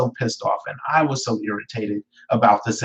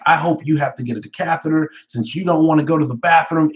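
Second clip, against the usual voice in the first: spiteful jab; 6 semitones higher than usual. Retold or imitated. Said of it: "So I'm like".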